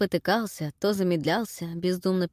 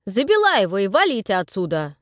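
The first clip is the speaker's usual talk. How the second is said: loud thug order; 6 dB louder than usual. Acted. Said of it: "добавил Картавый".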